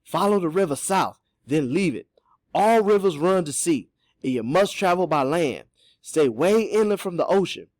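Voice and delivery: animated character telling what he heard; knowing Cato. Acted. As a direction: give directions in a hearty dialect voice. Voices Cato giving directions.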